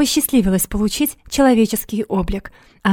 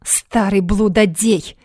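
angry outburst; slower than usual. Acted. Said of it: "гневно выпалила она".

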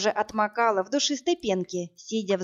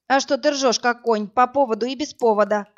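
snapping back; 3 semitones higher, 5 dB louder than usual. Acted. Woman snapping at the laughing brute. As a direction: snap back at him. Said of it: "огрызнулась я".

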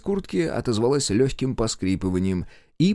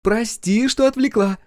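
high, loud teasing call; shouting from afar; 13 semitones higher, 5 dB louder than usual. Acted. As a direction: call back cheekily from the corridor. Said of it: "кричала она уже из коридора".

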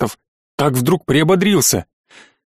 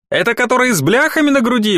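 soldier voice; 8 semitones higher than usual. A narrator's reading. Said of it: "уточнил Семёнов".

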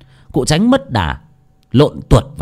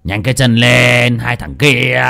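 urging; 3 dB louder, slower than usual. Acted. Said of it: "cụ thúc giục".

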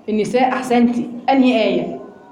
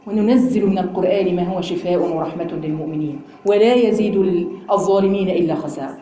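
lower, measured tajweed chant; Quran recitation; 8 semitones lower than usual. Acted. Teacher reciting the verse to her class, lower and chanted.

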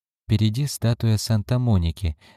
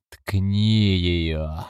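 crazed, hissing imp; mad hissing wail. Acted. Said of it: "завопил другой, безумный и свистящий". (безумный свистящий вопль)

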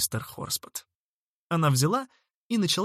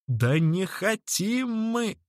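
very slow, high, drawn-out no; fed-up refusal; 7 semitones higher, much slower than usual. A narrator's reading. Horspot refusing sandwiches again, worn out. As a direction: stretch out the refusal wearily.

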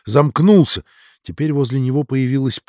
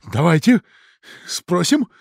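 wild agreement; 3 semitones higher, 4 dB louder than usual. Acted. Dudin agrees, eyes rolling wildly.

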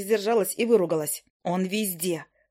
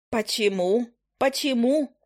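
indignant; 3 semitones higher, slower than usual. Acted. Witch repeats indignantly.

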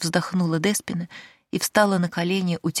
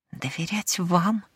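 hissed; 3 dB quieter, slower than usual. Acted. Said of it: "прошипела Деспина".

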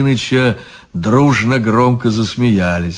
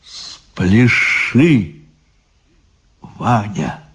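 quiet and gentle; much slower than usual. Acted. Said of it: "тихо и ласково".

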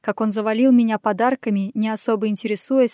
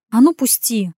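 mock-stern, louder yelp of a protest; playfully bossy squeak to let go; stern little mew; 5 dB louder than usual. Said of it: "строго мявкнув".

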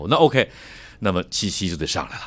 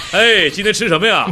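much higher and louder, laughing; booming stage voice; 12 semitones higher, 7 dB louder than usual. Shown as a demonstration. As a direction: call out theatrically to your spouse. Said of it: "跟你爱人也这么说话".

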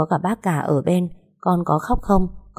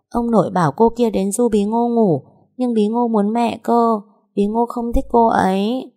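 put-on a pouting small child who wants her mom; sulky little girl; 6 semitones higher than usual. Little daughter complaining to mother about the nanny.

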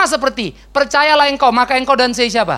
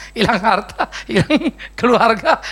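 laughing; slower than usual. Real, not acted. Tertawa sambil bicara.

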